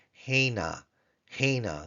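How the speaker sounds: hena with the stress on the last syllable, na; Hebrew hena. Shown as a demonstration. Teacher demonstrating the alternate form hena. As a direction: put the accent on na in hena. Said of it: "the tone syllable on the P note".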